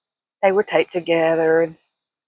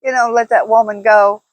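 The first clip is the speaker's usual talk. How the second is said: louder, scolding mock yell at the husband; telling him to hush; 4 semitones higher, 6 dB louder than usual. Teasing the husband to stop, mock scolding shout. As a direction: hush him up, half-joking. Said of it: "And I'm like".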